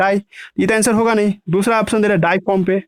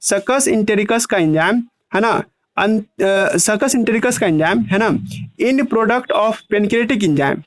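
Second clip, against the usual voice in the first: slow, word-by-word dictation pace; teacher slowing down so students can write it; slower than usual. Shown as a demonstration. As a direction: spell it out slowly for the class. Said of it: "धीरे-धीरे बोल रहे हैं".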